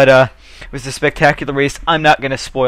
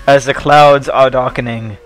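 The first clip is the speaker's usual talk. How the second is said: put-on slow, ominous British villain accent; evil British accent; 4 dB louder, slower than usual. Playing a British villain over the darkening sky, evil British accent. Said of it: "evil British accent there".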